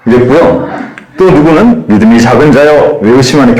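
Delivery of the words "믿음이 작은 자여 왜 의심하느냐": encouraging. Shown as a demonstration. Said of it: "격려".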